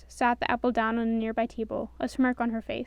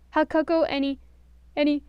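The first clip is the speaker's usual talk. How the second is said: breaking into rising ah ah; building sneeze; 5 semitones higher, 8 dB louder than usual. A narrator's reading. Sneezy offering cocoa, about to sneeze. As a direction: fight off a sneeze. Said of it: "watched Sneezy".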